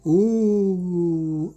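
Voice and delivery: loud, high startled ooh; caught-out ooh; surprised ooh. Real, not acted. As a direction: gasp it out in surprise. Reacting to own words.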